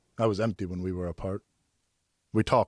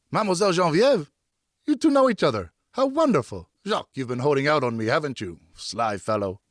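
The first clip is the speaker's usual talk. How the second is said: higher, louder, merry tipsy friend; tipsy friend Richard; 7 semitones higher, 5 dB louder than usual. Acted. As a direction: greet him like a jolly half-drunk pal. Narrator voices tipsy Richard.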